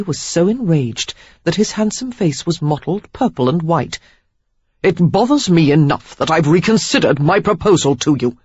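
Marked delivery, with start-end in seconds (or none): 4.8-8.4 every word in "It bothers me enough" enunciated separately; Perry withdrawing his proposal, each word enunciated. A narrator's reading. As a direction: spit out each word of it like a snap. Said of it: "He enunciated each word like the snap".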